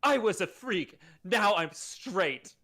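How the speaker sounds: slow deadpan. Acted. Angel line, slow deadpan.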